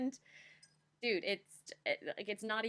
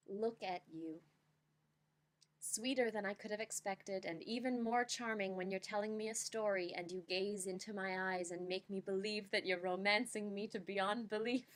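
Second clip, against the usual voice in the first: slam poetry reading. Shown as a demonstration. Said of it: "here I shall attempt my best slam poem reading".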